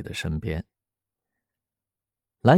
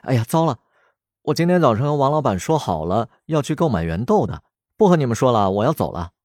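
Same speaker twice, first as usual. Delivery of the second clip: quick, higher, flustered rush of words; flustered panic; 4 semitones higher, faster than usual. Acted. Woman remembering an appointment, hurrying off in a fluster. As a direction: blurt it out, suddenly remembering. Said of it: "一脸慌张地说".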